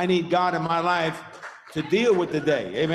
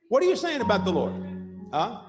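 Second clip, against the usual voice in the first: pressing question; 3 semitones higher than usual. Shown as a demonstration.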